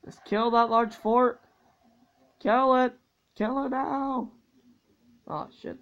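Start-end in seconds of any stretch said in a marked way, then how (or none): 2.4-4.3 high urgent commands; excited urging. Real, not acted. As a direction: push the team on, fired up. Urging in game.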